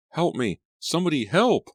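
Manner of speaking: high, loud desperate scream; screaming for help. A narrator's reading. Claudia calling out across the beach, high desperate scream. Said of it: "Her screams rang out".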